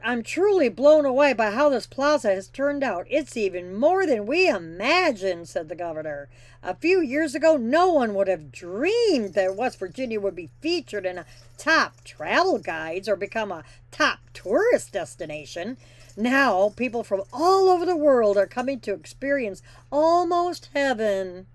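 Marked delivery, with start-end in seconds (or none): 0.0-5.5 mock-earnest politician read, sarcastic; snarky quoting. Trucker mocking the governor's glowing quote, snarky. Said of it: "You can tell the snarkiness in my voice". 6.6-21.5 mock-earnest politician read, sarcastic; snarky quoting. Trucker mocking the governor's glowing quote, snarky. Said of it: "You can tell the snarkiness in my voice".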